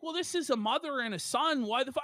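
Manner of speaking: normal talking voice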